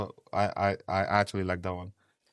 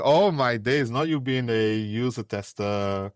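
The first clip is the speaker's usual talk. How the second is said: excited teasing. Retold or imitated. Teasing exclamation in story.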